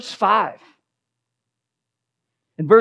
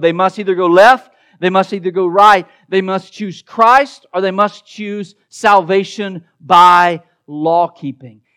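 louder emphatic choices; 5 dB louder than usual. Acted. Preacher lays out the fork.

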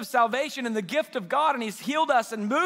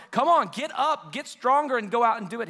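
rallying call; 2 semitones higher, 3 dB louder than usual. Acted. Imagined rallying call to the few.

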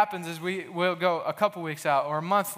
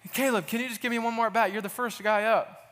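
mock-intense coach, pitched up; 5 semitones higher than usual. Little League coach begging the boy to bat, intense. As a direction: lean in hard like a pleading coach. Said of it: "very intense".

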